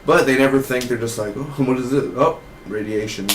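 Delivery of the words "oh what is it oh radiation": lightly mocking dim wonder; mock clueless. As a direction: play the oblivious characters, a touch dopey.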